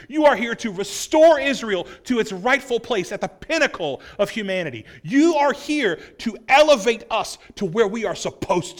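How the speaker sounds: a zealot's rising hopes; rallying hope. Retold or imitated. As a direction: proclaim the coming king. Disciples' hopes voiced.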